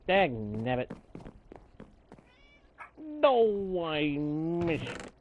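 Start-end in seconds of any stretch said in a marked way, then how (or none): 3.0-5.1 hammed-up anguish, falling away; mock despair. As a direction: wail it like a tragic defeat. Mock despair over missed carrot.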